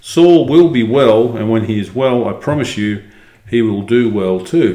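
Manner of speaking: measured, expressive storybook reading; story narration. A narrator's reading. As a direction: read it out as a first-person tale. Reads the story aloud.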